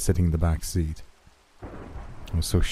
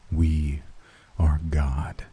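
whisper; 2 semitones lower, much slower than usual. Acted. Creature's climax line.

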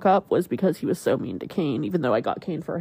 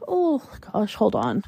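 choked up; 3 semitones higher, slower than usual. Real, not acted. Owner pausing the vet story, choked up. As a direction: break off to collect yourself. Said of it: "I'm getting choked up".

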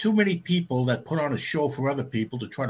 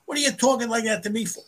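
higher, indignant mock protest; the offended friend protesting in a higher voice; 9 semitones higher than usual. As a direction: squeak it out like the insulted friend.

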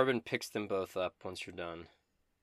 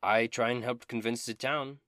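high, loud and theatrical; Dobin, eager bard; 4 semitones higher, 6 dB louder than usual. Acted. Dobin bragging about dragon slaying, high and loud. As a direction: ham up the vainglorious bard.

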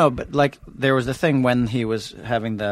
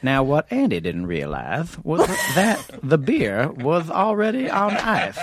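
slow narrator voice with a lisp; lisping slow movie narration; Morgan Freeman with a lisp; 4 semitones higher, slower than usual. Shown as a demonstration. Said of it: "Can you do Morgan Freeman with a lisp?".

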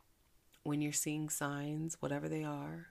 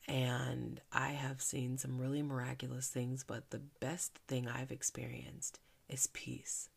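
heartfelt prayer. Acted. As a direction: speak thanks to God gently. Gratitude prayer, hushed.

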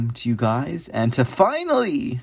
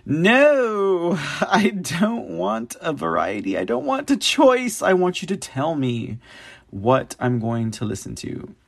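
high-pitched, playful whine of refusal; mock protest; 6 semitones higher than usual. Real, not acted. Podcaster complaining to the music search, mock protest. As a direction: protest in a much higher voice, half laughing.

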